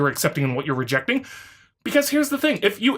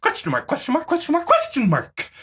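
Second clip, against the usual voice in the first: mocking the opponent. Reading the opponent's comment to him in a mocking whine. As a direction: parody the commenter's smug questioning.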